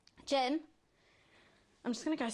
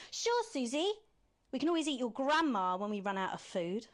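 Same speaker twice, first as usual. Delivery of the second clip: much higher, eager doormat voice; mock wimpy Alex; 3 semitones higher than usual. Villain mimics Alex caving to Susie, high mock voice. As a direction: agree brightly like a spineless pushover. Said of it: "you're acting like a bit of a wimp".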